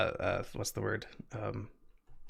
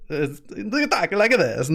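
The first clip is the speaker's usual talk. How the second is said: higher, bouncy New England accent; old New England lilt; 6 semitones higher than usual. Shown as a demonstration. Explaining how locals talk, old New England lilt. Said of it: "old New England lilt sounds like".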